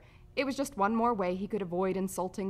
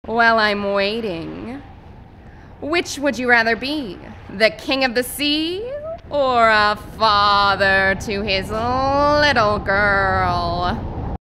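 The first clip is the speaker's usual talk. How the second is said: big, loud, drawn-out villain-style taunt; booming, slow, theatrical challenge; theatrical character; 2 semitones higher, 14 dB louder, slower than usual. Acted. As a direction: stretch the words out grandly and loudly.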